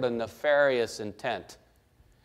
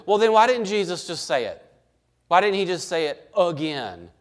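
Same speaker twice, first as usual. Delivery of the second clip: higher, questioning voice of a doubter; puzzled objector; 4 semitones higher than usual. Retold or imitated. Preacher voicing the doubters' question, incredulous. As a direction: ask it like a skeptic who wants proof. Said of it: "People struggle with".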